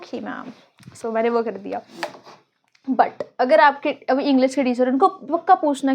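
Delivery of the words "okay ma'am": meek reply. Retold or imitated. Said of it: "So I was like".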